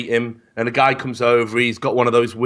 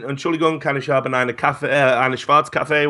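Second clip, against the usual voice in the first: halting German coffee order; speaking German. Retold or imitated. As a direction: ask for coffee in clumsy German. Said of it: "I speak German".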